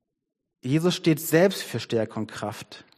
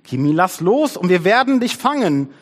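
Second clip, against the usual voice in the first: high, loud coaxing calls; storybook shouting, pitched up; shouting friends; 8 semitones higher, 6 dB louder than usual. A narrator's reading. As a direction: cheer a friend on from below. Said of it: "schrien die Freunde".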